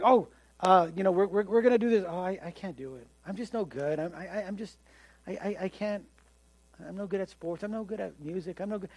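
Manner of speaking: soft, halting, stammering defeat; self-doubter. Retold or imitated. Person lacking self-confidence putting themselves down, soft and halting. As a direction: mumble it like you've given up. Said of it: "their attitude is always, "I can't".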